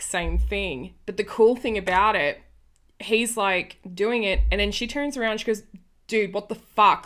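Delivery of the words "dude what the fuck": mild mock yell of outrage; half-acted angry shout at the pervert; retold scream. Younger bird yells at her boss, mild mock outrage. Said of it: "she screams at him".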